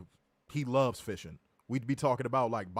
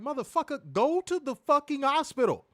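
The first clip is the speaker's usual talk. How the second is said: yelling; 11 semitones higher, 4 dB louder than usual. Retold or imitated. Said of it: "I'm like".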